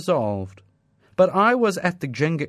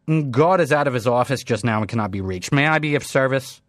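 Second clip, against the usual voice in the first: receptionist; 3 dB louder, faster than usual. Acted. Receptionist brushes off caller.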